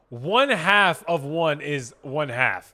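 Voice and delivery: emphatic slow math explanation; slow loud explaining. Real, not acted. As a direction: lay out each word slowly and loudly. Explaining math loudly, slowly.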